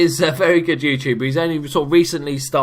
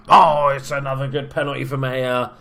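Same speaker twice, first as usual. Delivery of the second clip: goal celebration; 5 dB louder than usual. Real, not acted. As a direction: call the goal, stretching out the score. Penalty scored in the game.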